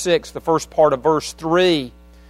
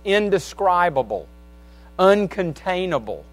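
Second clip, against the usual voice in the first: reciting song lyrics. Real, not acted. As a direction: speak the lyrics like a poem, pausing between phrases. Recites a song's chorus.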